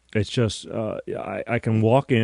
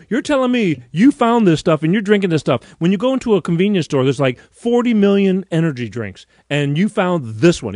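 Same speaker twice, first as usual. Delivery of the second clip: high, loud disbelieving retelling; animated, raised-voice incredulity; incredulous amazement; 7 semitones higher, 5 dB louder than usual. Retold or imitated. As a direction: pile it up in mounting astonishment. Retold amazed reply to friend.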